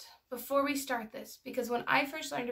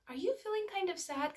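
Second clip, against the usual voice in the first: put-on higher-pitched question to a small child; gentle check-in; 8 semitones higher than usual. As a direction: tentatively ask a child about feelings. Retold gentle question to daughter.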